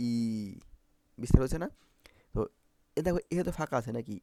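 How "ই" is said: long held "ই" as ee; drawn-out demonstration of "ই", lips spread; spread-lip vowel. Shown as a demonstration. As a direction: stretch the lips wide and hold "ই". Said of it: "আমাদের ঠোঁট এরকম বিস্তার হয়ে গেছে".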